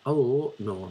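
a hint of Belfast accent; attempted Belfast accent. Shown as a demonstration. Comedian trying out accents, tentative Belfast accent. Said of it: "this is my Belfast accent".

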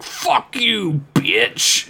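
high-pitched, hammed-up outburst; mock angry retort. Worf answering Troy's scolding, mock anger. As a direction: throw it out high, in mock outrage.

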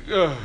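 imitated tongue-tied low grunt and breath; low wordless noises, too starstruck to talk; speechless starstruck grunt. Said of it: "he couldn't talk".

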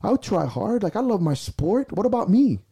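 high, loud desperate plea; emotional pleading yell. Retold or imitated. Lifter yelling at his sport after failed lifts, pleading. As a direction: beg and shout at once. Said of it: "And I was emotional".

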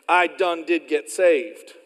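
loud, folksy Oklahoma phrasing; Oklahoma folksy talk. Acted. Preacher joking about home, folksy Oklahoma talk. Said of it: "like they say down in Oklahoma".

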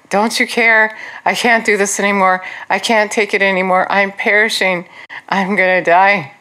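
imitating an overwhelmed believer pleading; acted desperate complaint. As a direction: wail mildly, as if you can't cope. Voicing our complaints to Jesus in trouble.

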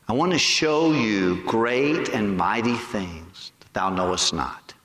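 slow, low, measured promise; solemn voice of God. Retold or imitated. God promising to show great things, slow and low.

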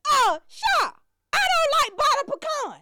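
high, loud fussy aunt; indignant auntie. Retold or imitated. Aunt complaining to daughter, high fussy voice. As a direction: sniff at the flavor.

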